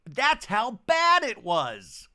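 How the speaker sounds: hammed-up dramatic castmate; mock Heather. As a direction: lay the drama on thick. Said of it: "And Heather going".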